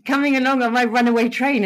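sighing over them in a lifted voice; a hint of fond pity; mock pity. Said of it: "and I think".

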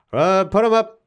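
high, loud toy cowboy; pull-string doll cowboy; Woody pull-string voice. Retold or imitated. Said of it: "he'll say different phrases".

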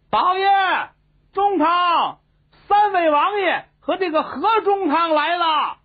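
high, loud call into the house; servant calling out. Acted. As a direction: shout for the master inside. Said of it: "连喊了三遍". (仆人高声朝里喊老爷)

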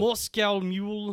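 slow put-on Russian accent; slow Russian-accented practice phrase. Shown as a demonstration. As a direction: draw it out in mock Russian. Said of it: "see if I can do a Russian voice".

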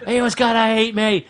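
put-on high, pleading in a broad British accent; British-accented desperate excuse. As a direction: whine it in an exaggerated British accent. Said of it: "you suddenly went British".

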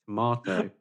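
tomato with a long "ah" in the middle; British pronunciation. Shown as a demonstration. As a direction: say tomato as "to-mah-to". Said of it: "I say".

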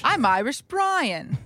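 slow, mock Irish accent; joking attempt at an Irish accent. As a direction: stretch it out in a put-on Irish accent. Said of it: "can you do an Irish accent".

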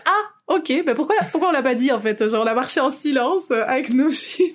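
high, bewildered realization; high surprised voice. Retold or imitated. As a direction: squeak it out in disbelief. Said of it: "J'étais là".

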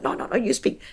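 imitating mouthed refusal, softened; mock mouthing, keep it hushed; soft, quick-fire miming back.

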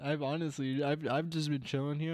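lazy put-on Southern cowboy accent. Chilling with friends, lightly put-on Southern accent. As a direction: keep up the Southern accent you're enjoying. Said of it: "I've been enjoying this accent".

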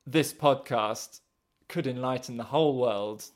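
mock-grandiose announcement; theatrical voice. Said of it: "put on my most theatrical voice".

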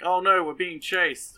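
half-joking cry of panic; mock panic. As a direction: ham up the fear of the chase. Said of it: "they're like".

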